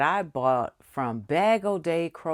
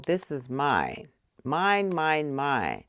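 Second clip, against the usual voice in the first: possessive mine; 5 semitones lower than usual. Retold or imitated. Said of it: "I said".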